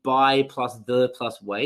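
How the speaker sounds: by, plus, the, plus, way, each word split apart; chopped into single words like a bad lesson. Shown as a demonstration. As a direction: break "by the way" into separate words with pauses. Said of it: "you wouldn't teach it like".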